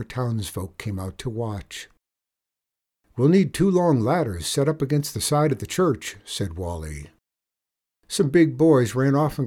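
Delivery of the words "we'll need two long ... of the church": higher, lightly voiced boy; confident boy. Boy setting up a climbing contest, confident. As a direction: announce what is needed.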